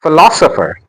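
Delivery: "Philosopher" with LOS made prominent; stress on second syllable. Shown as a demonstration. Teacher modelling word stress, "Philosopher" stressed phi-LOS-opher. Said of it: "The stress is on".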